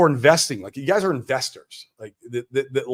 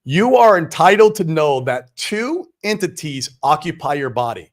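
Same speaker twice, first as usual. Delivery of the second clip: deliberate, emphatic reading; slow read-aloud; 5 dB louder than usual. Real, not acted. Host reading a book passage to viewers, slow and deliberate. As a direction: read it out slowly, stressing key words. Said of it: "we're gonna read it slow".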